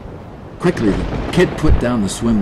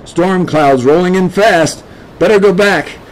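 muttering man; 8 semitones higher, 5 dB louder than usual. A narrator's reading. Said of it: "the man muttered".

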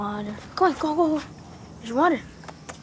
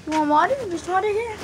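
higher, sing-song dog talk; 7 semitones higher, 3 dB louder, faster than usual. Real, not acted. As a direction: coax the puppy up high. Offering water to the dog.

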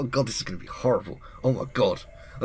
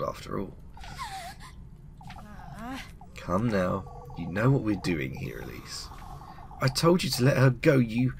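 put-on sly old witch; 4 dB quieter than usual. Witch talking down to the girl, sly and menacing. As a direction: purr it like a witch sizing up her prey.

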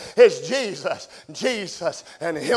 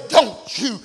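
mock stern father. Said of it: "daddies get on to their kid and say".

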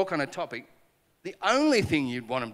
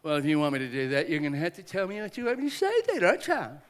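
a petulant, higher retort; petulant demand; 3 semitones higher, 5 dB louder than usual. Retold or imitated. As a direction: toss it back like a sulky child. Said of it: "that's basically how I said it".

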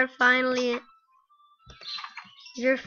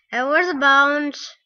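louder call to the dog; 6 dB louder than usual. Real, not acted.

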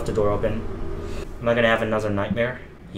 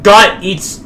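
raised, drawn-out fake German; mock German accent; 5 semitones higher, 6 dB louder, much slower than usual. Player attempting a German phrase he can't pronounce, exaggerated German accent. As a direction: stretch it into a loud, clumsy German accent. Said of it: "That offensive German, if that is German".

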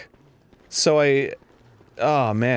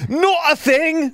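slow mock solemn; 13 semitones higher, 3 dB louder, slower than usual.

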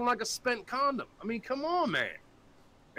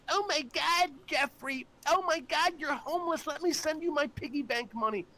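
higher mock little-kid gush; 6 semitones higher than usual. Mocking young fans begging to send homeless Jeffrey money, higher gushing kid voice. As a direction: imitate a starstruck nine-year-old fan. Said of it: "a lot of nine-year-olds are like".

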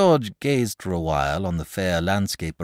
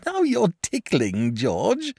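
coyly; 6 dB louder, slower than usual. A narrator's reading. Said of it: "said the dragon coyly".

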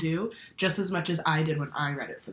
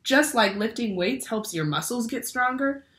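bright, lively picture-book read-aloud; reading to children. A narrator's reading. Teacher reads a brain book to her class, lively storytelling. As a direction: read it like story time for little ones.

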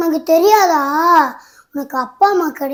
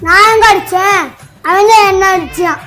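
higher, louder indignant denial; mock-innocent whine to mother; hammed-up protest; 4 semitones higher, 7 dB louder than usual. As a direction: overact the innocent victim. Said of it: "நடிக்காதடா".

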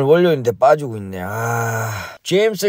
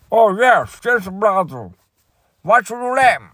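lightly voiced chairman, a bit higher; voicing the Fed chairman; 3 semitones higher, slower than usual. A hint of the Fed chairman answering the angry investor. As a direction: play the startled chairman on the phone. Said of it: "제임스 브라더 총재에게 연락을".

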